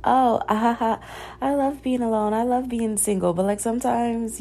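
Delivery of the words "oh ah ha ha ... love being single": mocking cringy voice. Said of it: "the cringy shit of being like".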